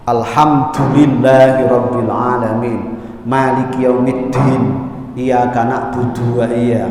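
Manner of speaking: "Maliki yaumiddin" with a hissy, over-aspirated d; wrong demo, d turned hissy in "Iyyaka na'budu"; over-hissed d. Shown as a demonstration. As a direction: recite "Alhamdulillahirabbil alamin" low, the d leaking too much air. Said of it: "jangan pula terlalu banyak desis".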